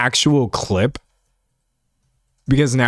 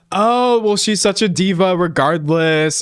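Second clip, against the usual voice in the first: mocking commenters; 4 semitones higher than usual. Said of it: "People in the comments be like".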